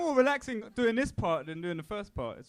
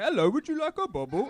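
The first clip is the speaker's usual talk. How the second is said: higher, louder Cockney urchin parody; Oliver Twist; 5 semitones higher, 5 dB louder than usual. Acted. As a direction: exaggerate a chirpy British street-seller greeting. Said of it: "make us sound like Oliver Twist".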